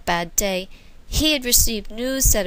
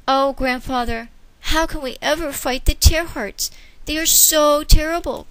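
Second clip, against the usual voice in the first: higher fearful plea; cling to grandfather; crying out; 5 semitones higher than usual. Acted. Child crying out in fear to grandfather. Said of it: "cried Wonder".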